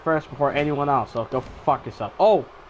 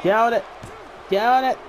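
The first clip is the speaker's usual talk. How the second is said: urging the ref; 5 semitones higher than usual. Real, not acted.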